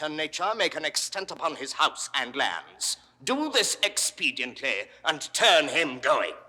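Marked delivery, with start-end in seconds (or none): 3.2-6.3 loud, forceful dismissal; raised-voice banishment order; angry command. Acted. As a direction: give the order loudly, ending hard. Ruler orders the man expelled.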